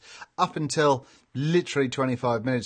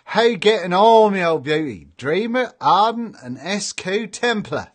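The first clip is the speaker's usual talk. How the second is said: put-on broad Norfolk accent, higher and louder, slowing on the list of names; 5 semitones higher, 6 dB louder than usual. Streamer greets a viewer in a broad Norfolk accent. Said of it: "That's what they sound like in my neck of the woods".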